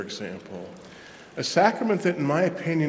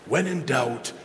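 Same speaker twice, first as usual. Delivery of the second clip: put-on British accent. Eamon Duffy addressing future priests, in a light British accent. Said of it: "he said in his British accent".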